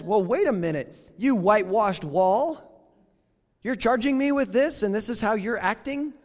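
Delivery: a hint of Paul scolding the priest; mock Paul rebuke.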